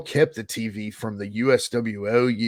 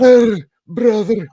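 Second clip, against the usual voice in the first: much higher, much louder, slow put-on Sheik accent; Sheiky gimmick voice; 10 semitones higher, 12 dB louder, slower than usual. Shown as a demonstration. Wrestler demoing his second gimmick voice to the host, a slow, loud hammed-up Sheik. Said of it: "a Sheiky voice".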